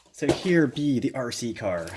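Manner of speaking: slow pirate talk. Pretend. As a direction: talk like an old sea pirate. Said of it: "Not sure why I sounded like a pirate just now".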